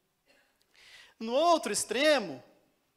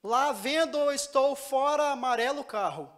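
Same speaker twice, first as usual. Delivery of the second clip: slow word-by-word reading; 3 semitones higher, 5 dB louder, slower than usual. Shown as a demonstration. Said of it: "você falaria assim".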